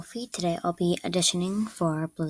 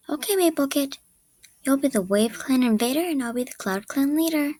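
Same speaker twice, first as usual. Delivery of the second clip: higher-pitched neutral character voice; neutral audition read; 4 semitones higher than usual. Acted. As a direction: read the line evenly, pitched up a little.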